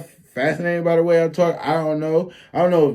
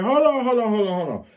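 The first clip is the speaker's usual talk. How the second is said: calling out; 7 semitones higher than usual. Retold or imitated. Calming a brawl.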